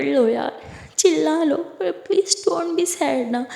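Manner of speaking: crying, then slow begging; tearful pleading. Acted. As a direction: beg through tears, slow down at the end. Sara begs her sad friend. (रोते हुए मिन्नत)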